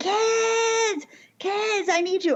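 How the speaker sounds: very high, slow, drawn-out screaming call. Retelling a husband calling the kids during a flood: imitating someone screaming. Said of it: "he's screaming".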